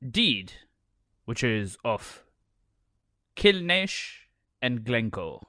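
halting mock-formal proclamation; lordship voice. Lord reading his land deed to listeners, mock-stately. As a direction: read it out with pauses like a pompous lord. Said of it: "you have to do your lordship voice".

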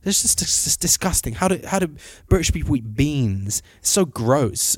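lightly mimicked posh disgust; a hint of a posh, appalled date. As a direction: retell it in a mildly posh voice. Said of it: "I guess quite posh, and she's like".

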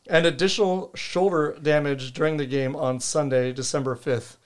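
lisping through a retainer. Real, not acted. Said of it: "this lisp that comes with wearing this retainer".

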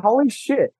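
a retold burst of wonder slowing into reverie; imitating his own amazement at home; awed, marvelling. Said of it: "I literally am like".

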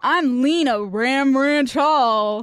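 slow cheesy announcer; radio host voice. Pretend. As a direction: introduce yourself like a DJ. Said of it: "like we're radio hosts".

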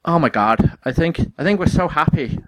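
a light mock Irish accent. Host joking about a pop duo in Irish accent. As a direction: put on a hammy Irish accent. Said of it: "that's my amazing Irish accent".

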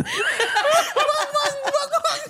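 very high yapped "wong" on repeat; hammed-up imitation of a bark, laughing; mum's dog bark. Grandma showing the dog noise, very high laughing bark. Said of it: "my mom's like".

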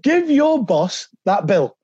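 a lightly voiced boss, each word drawn out slowly; slow Cloughie quote. Manager telling player to give the bill to his boss, slow and deliberate. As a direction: hand down the order slowly, like a manager who won't explain.

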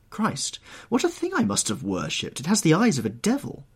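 high, impassioned lament; horrified painter. Acted. Painter recoils from his ruined ideal, horrified. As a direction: protest in rising horror.

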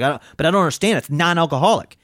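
mildly heated, baffled protest; retold anger. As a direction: imitate an indignant customer insisting. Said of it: "He's mad. He's fucking pissed".

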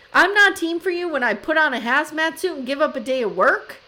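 high, loud mock tirade; yelling. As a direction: protest indignantly as the fed-up partner. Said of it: "I'm yelling this into my computer".

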